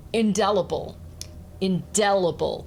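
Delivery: "indelible" with the weight on DEL; natural in-DEL-ible, second syllable stressed. Shown as a demonstration. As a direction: say "indelible" as in-DEL-ible, falling away after DEL. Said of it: "The stress is on the second syllable here".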